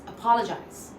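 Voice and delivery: a-POL-ogize, second part stressed. Shown as a demonstration. Teacher shows the stressed second part, POL strong. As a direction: lean on POL in apologize. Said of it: "Pa is stress".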